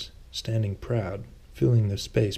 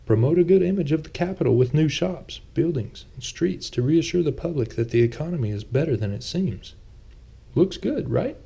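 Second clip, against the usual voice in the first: Thomas, a touch sheepish; 7 semitones higher, 3 dB louder than usual. A narrator's reading. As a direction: play Thomas a little defensive, pitched up. Thomas voiced by narrator.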